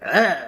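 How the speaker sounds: loud, high grunt of disgust; disgusted "ugh". Acted. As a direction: blurt out a mock-disgusted ugh. Imagined reaction to unflattering light.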